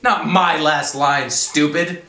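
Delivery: loud, high, drawn-out angry shout; colonel's shout. A narrator's reading. Colonel to corporal taking shorthand, shouting. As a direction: shout down a stupid underling. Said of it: "the colonel shouted".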